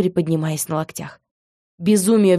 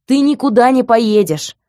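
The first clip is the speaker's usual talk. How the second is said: loud, high furious order; angry shout; 6 semitones higher, 5 dB louder than usual. Acted. Man stopping heroine at the car, angry shout. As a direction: bark it at her. Man grabs her by shoulders.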